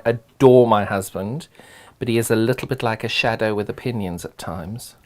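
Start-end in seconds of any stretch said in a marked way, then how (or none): 2.0-4.9 hushed confiding aside; whispering. Real, not acted. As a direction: whisper it like a secret. Confiding aside about husband.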